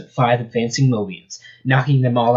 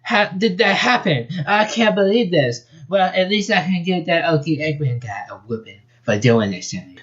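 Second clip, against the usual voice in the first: high southern freak-out; thick southern accent; 6 semitones higher than usual. Acted. Rabbit stunned by her roboticized body, southern accent. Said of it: "Her voice was a thick southern accent".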